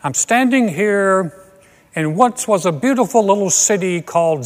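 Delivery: mock on-the-scene news report; a hint of a serious TV correspondent; TV news reporter. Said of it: "some guy standing there going".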